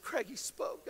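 very soft, retold wife's news; hushed revelation. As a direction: break the news barely aloud.

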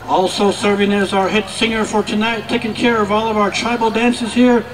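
booming arena announcer calling names; powwow emcee. Acted. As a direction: announce each dancer to the crowd.

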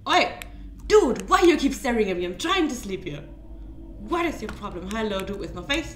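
loud, annoyed shouting at a stalker; yelling at the creature. Real, not acted. Player yelling at the faceless dude staring at him, loud annoyed shout. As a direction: tell the faceless dude off at full voice.

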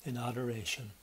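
solemn, reverent praying voice; earnest pleading prayer. Acted. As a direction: pray earnestly for the congregation. Pastor leads congregational prayer.

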